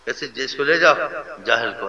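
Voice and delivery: lightly acted brusque official; harsh officer. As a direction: mildly imitate an impatient officer. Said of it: "کوئی اور تمہارا جیسے افسر ہوتا".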